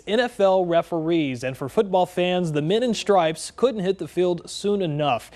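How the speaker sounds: steady sports news read. Acted. Anchor on the referee lockout ending, news read. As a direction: lead into the reporter's piece. Anchor reads NFL refs story.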